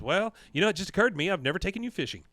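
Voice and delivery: Peggy. Acted. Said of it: "She goes".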